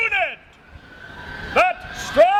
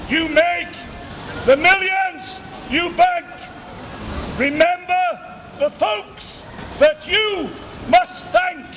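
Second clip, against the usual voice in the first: town crier proclamation. Acted.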